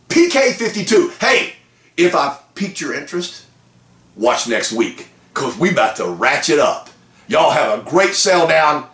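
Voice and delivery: usual speaking voice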